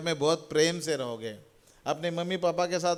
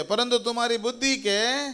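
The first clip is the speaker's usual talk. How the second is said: high, measured verse prompt; feed the crowd one phrase at a time, slowly; raised voice for group repetition; call it out firmly; 5 semitones higher than usual. Shown as a demonstration. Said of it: "जोर से बोलिए".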